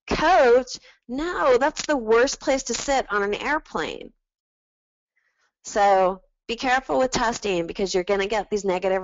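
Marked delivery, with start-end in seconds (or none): 0.1-4.1 higher-pitched imitation of a critic; mock dismissive objection. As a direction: act out an appalled focus-group member. Second imagined focus-group member objecting.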